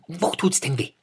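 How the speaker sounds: hare asking. A narrator's reading. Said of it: "fragte der Hase".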